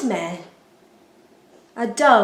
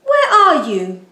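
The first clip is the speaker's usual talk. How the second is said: louder, higher searching call; 5 semitones higher, 6 dB louder than usual. A narrator's reading. God searching for hidden children, loud high call. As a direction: call into the shadows. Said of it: "God called".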